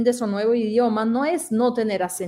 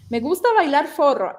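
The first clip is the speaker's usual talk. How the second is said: a hint of a Brazilian accent on forro; Brazilian learner's Spanish; 4 semitones higher than usual. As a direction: repeat the friend's Brazilian forro. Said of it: "Decía así".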